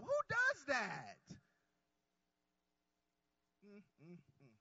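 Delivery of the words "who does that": each word stretched slowly; slow emphatic call. Acted. Preacher rousing a sleepy congregation, slow stretched call. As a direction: drag it out to wake them up. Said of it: "come on, y'all better wake up".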